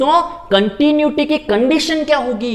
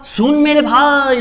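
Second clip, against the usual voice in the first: emphatic call; 4 semitones higher, 4 dB louder, slower than usual. Real, not acted. Teacher calling student's attention.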